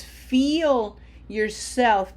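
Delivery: slow, lengthened coaching emphasis; drawn-out urging. Shown as a demonstration. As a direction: stretch it out slowly. Urging students to feel vowels.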